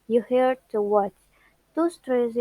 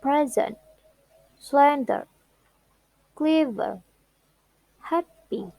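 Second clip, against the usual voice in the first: PRES-ent, SLEN-der, CLEV-er, HAP-py; each of Present, Slender, Clever, Happy starts high, then falls; stress on first syllable; 3 semitones higher than usual. Shown as a demonstration. Teacher listing two-syllable adjectives, first syllables stressed. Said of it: "The most second syllables adjective".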